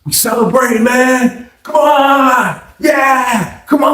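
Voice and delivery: high, whooping party-guy imitation; hyped white dude. Cellmate celebrating on his mattress, hyped white-dude whooping. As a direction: cheer it on in a high excited voice. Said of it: "he was acting like a white dude".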